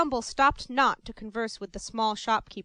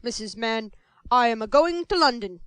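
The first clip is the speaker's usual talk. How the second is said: louder, self-important; pompous announcement; 7 dB louder than usual. Acted. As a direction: announce it like great news. Grand announcement.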